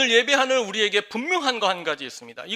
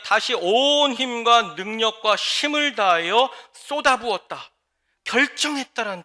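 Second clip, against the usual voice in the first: slow emphatic; slower than usual. Real, not acted. Emphasizing word meaning.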